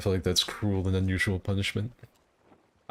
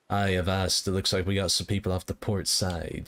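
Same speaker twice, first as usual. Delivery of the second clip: pirate voice. Shown as a demonstration. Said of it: "talking in my normal voice".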